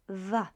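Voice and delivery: "W" said as a v sound, "va"; pronunciation demo. Shown as a demonstration. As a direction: Polish "W" sounded like English v. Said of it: "is represented by the sound W".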